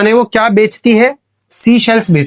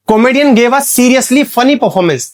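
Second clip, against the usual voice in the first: very slow, a bit higher, each word spaced; slow example read; 5 semitones higher, much slower than usual. Shown as a demonstration. Teacher reads the oxymoron example slowly to students. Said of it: "कुछ examples मैं आप लोगों को बताता हूं".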